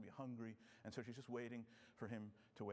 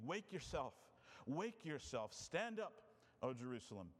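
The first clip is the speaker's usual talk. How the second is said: scripture reading. Acted. Preacher reads Isaiah aloud to congregation, solemn and measured. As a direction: read the prophet's words out with weight.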